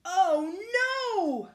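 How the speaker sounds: high, wailing sheep; bleating sheep. A narrator's reading. Sheep hearing of the dark sky, bleating. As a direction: cry it out in woolly dismay. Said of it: "bleated the sheep".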